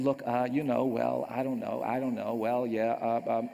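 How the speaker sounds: low, stalling hems and haws; insincere. Retold or imitated. Boy forced to say it to another child, insincere. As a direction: act out a boy squirming out of it. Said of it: "as insincerely as I possibly could".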